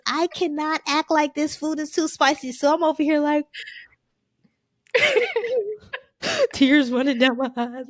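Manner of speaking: laughing while telling the story. Real, not acted. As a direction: laugh through the words, high and loud. Retells hiding spicy pain, laughing.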